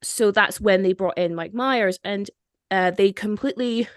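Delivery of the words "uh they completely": whispered aside. Real, not acted. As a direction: drop to a whisper for a moment. Conspiratorial aside mid-story.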